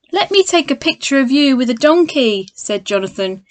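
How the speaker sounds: lively storybook read-aloud; reading to children. A narrator's reading. Teacher reads Paddington to children at home, lively storybook voice. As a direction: read it like a bedtime picture book for kids.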